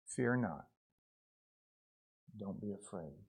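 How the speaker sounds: slightly hushed comfort, dropping low and soft; gentle reassurance. Acted. Preacher voicing the Lord to fallen John, gently reassuring.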